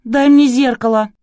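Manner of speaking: high, loud demand. A narrator's reading. Girl demands a mirror from Artur, loud. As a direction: order it sharply. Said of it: "Девушка потребовала".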